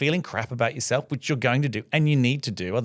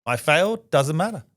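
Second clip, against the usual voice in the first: mock nonchalant; 4 semitones higher, 3 dB louder than usual. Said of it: "It's nonchalant".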